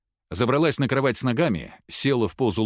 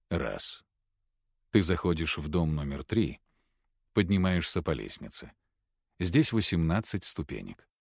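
hypnotic induction; 5 semitones lower, 5 dB quieter than usual. Acted. Hypnotist leading a patient into trance, low and soft. Hypnotist counts, gives suggestions.

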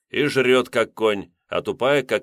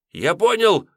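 high panicked shout; 11 semitones higher, 5 dB louder than usual. A narrator's reading. Student yelling to the master in fear. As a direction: yell it out in fright. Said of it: "закричал Чижик".

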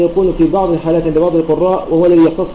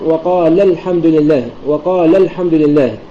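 slow, with stress on the لَ ending وقال before الحمد; dual stress; slower than usual. Shown as a demonstration. Teacher showing the dropped alif, stress at the end of وقال. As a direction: lean on the last syllable of وقال. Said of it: "بتحقيق النبر".

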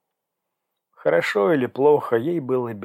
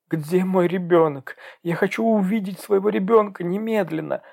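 demanding; 8 semitones higher than usual. Acted. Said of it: "потребовала она, всхлипнув".

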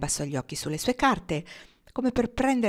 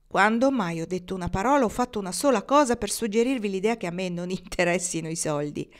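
firm, well-articulated challenge; carefully enunciated. A narrator's reading. Marnie challenges Pocket about money, enunciating clearly. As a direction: mark out the words with some force. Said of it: "scandendo bene le parole".

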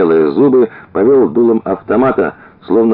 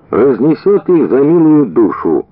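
satisfied; 7 semitones higher than usual. A narrator's reading. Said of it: "добавил он с удовлетворением".

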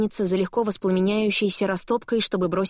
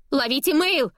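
excited exclamation; 7 semitones higher than usual. A narrator's reading. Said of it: "восклицает Диметра".

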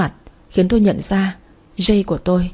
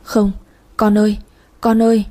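wailing cry; 3 semitones higher than usual. Acted. Mother losing her son, wailing for him. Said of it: "lớn tiếng gào khóc".

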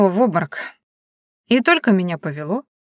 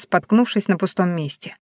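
plain reading voice

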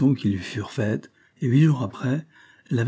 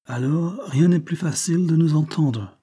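put-on higher English-accented French, self-assured; unruffled British accent; 6 semitones higher, 3 dB louder than usual. A narrator's reading. Englishman ignoring her mockery, assured British accent. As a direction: settle it as an unruffled Briton. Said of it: "dit tranquillement l'anglais".

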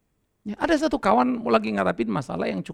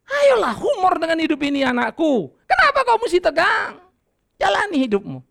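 rousing call; 6 semitones higher than usual. Real, not acted. Preacher urging congregation.

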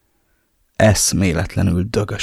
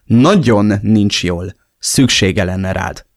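slow, reproachful weight on nagyon; 4 dB louder, much slower than usual. Acted. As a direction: lay the blame on him slowly. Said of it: "közölte szemrehányással a hangjában". (szemrehányóan, lassan)

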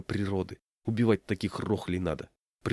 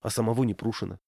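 ordinary delivery, nothing marked

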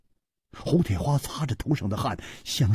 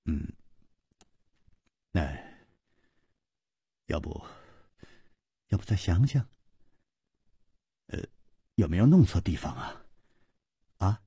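平淡自然; 3 dB quieter, faster than usual. Acted. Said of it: "尽量的把声音放得平淡和自然".

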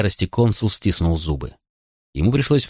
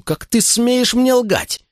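high, drawn-out angry demand; slow, high-pitched furious father; flaring outrage; much slower than usual. A narrator's reading. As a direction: rear up in indignation at a lie. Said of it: "вскинулся консул".

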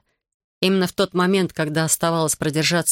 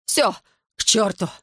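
hysterical shout; 3 semitones higher than usual. A narrator's reading. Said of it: "истерично кричал Генрих".

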